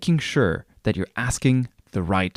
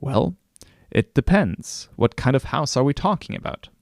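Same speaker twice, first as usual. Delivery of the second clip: coy; 4 semitones higher than usual. Retold or imitated. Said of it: "coyly respond".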